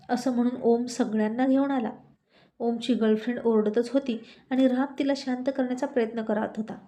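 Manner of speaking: plain reading voice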